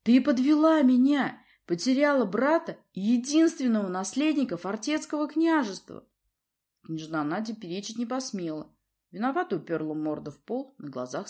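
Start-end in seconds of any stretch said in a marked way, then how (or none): 0.0-6.1 much higher, louder berating; furious father. A narrator's reading. Prince furiously berates his daughter. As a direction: rage at her failure.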